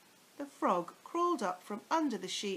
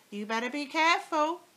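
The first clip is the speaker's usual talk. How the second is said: higher, louder, fast threat; warning old hag; 8 semitones higher, 9 dB louder, faster than usual. Acted. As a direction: warn him off, sharp and quick. Mrs Twit warning husband.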